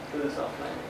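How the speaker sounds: normal talking voice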